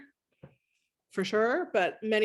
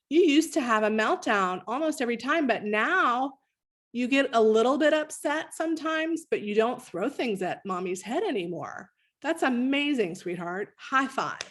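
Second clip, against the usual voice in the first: praising parent; 3 semitones higher than usual. Shown as a demonstration. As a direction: cheer the child on gently, like a proud mom. Parent praising child, demo.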